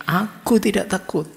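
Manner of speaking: high, loud defiant yell into the dark; frightened boy yelling at a rattling door; scared shout. Retold or imitated. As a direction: shout it to drown out the fear. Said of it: "sambil teriak".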